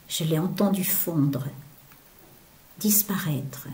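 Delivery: whispered like melting snow. Acted. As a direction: fade the word into a whisper. Snowflake melting, voice vanishes.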